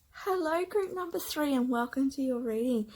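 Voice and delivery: high, bubbly hello through a giggle; giggly greeting. Real, not acted. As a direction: welcome them while holding back a giggle. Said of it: "I'm having a little giggle".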